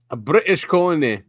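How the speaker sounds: a lightly put-on British accent that slips toward Scottish; attempted British accent. Joking with co-host about colonies, a half-hearted British accent. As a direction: try a British accent and drift into Scottish by mistake. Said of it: "No, wait, that sounds Scottish".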